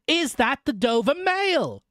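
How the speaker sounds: slow, high-pitched hail; calling from mist. A narrator's reading. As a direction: repeat the question across a distance. Stranger calls again from the mist.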